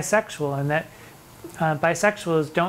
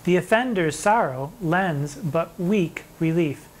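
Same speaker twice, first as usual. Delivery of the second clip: slow poem recital; slower than usual. Acted. Teacher reciting a sonnet to students, slow and measured. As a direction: read the verse slowly and deliberately, each word weighed.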